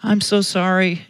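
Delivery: put-on lightly cooed apology to a child; apologetic parent. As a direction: comfort an upset little one. Parent answering the venting child.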